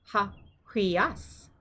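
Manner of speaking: "ha, hui as" with AS stressed; slow ha, hui-AS, weight on the end; stress on second syllable. Shown as a demonstration. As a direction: draw it out and lean on "as". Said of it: "accent is on the second syllable".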